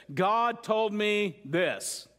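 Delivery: very slow, weighty pronouncement; playing the God card. Pastor mimicking people who play the God card, slow and weighty. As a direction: draw each word out slowly, imitating a claim from God. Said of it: "it usually sounds like this".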